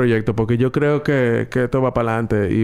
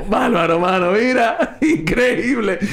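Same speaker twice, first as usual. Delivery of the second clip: amazed; 8 semitones higher, slower than usual. Retold or imitated. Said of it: "yo me quedé como".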